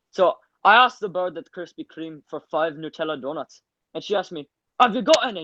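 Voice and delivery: chatty Scottish storytelling, pitch jumping up on the punchline; lively Scottish anecdote voice; Scottish accent. Acted. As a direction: tell it like a Glasgow lad to his pals, in Scottish. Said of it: "in my beautiful Scottish accent".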